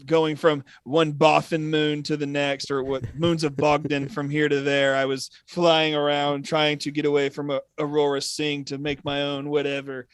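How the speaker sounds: loud, mock Kiwi storyteller voice; imitating a crisp New Zealand accent. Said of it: "however he talks".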